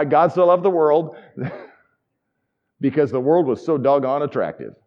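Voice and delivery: jokingly self-serving take, laughing through it; mock wrong reading. Shown as a demonstration. Preacher mocking a wrong reading to the congregation, laughing. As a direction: read it as if God picked the pretty ones. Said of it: "maybe not".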